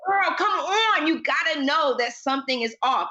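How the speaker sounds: mock exasperation at the TV; exasperated urging. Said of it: "Like, I was like".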